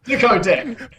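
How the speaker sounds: "Dicodec" set apart as dih-koh-DECK; wrong pronunciation. Shown as a demonstration. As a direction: say "Dicodec" with short first vowel, ending DECK. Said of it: "It's not".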